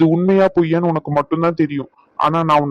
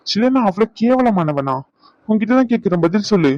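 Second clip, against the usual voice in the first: higher, hurt and accusing demand for an answer; hurt anger; 4 semitones higher than usual. Acted. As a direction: confront her, pitch rising with hurt. Husband confronting wife angrily. (காயப்பட்ட கோபத்துடன் கேள்வி)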